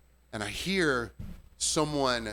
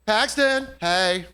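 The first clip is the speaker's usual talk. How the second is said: calling out; 7 semitones higher, 6 dB louder, much slower than usual. Retold or imitated. Customer calling bartender's name.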